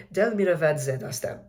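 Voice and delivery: "Del miravad ze dastem" in even, smoothly linked syllables; smooth flow. Shown as a demonstration. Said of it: "symmetric syllables and the smooth flow".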